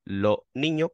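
"lo niño" with no s and a rising end; s dropped. Shown as a demonstration. Contrasting the singular-sounding form: s dropped. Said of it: "no es lo mismo decir".

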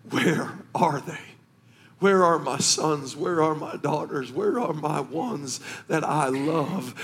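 lightly voiced father searching for his children; longing father.

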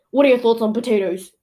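fast, punchy interviewer voice; reporter voice. Acted. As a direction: quiz him like a TV reporter. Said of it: "this is r-, my reporter voice".

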